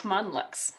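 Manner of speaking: Monlux said softly as MON-lux; phonetic pronunciation. Shown as a demonstration. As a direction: say Monlux plainly as spelled, stress up front, voice dropping. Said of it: "It's just straight up phonetic".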